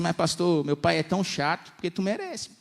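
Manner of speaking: put-on high, loud complaining teen voice; a teen complains to the pastor, loud and whiny. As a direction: whine it like a fed-up kid. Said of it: "Aí você vira pra mim e fala assim".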